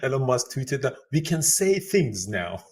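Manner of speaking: chuckling through the words; laughing while talking. Real, not acted. Joking about saying things now.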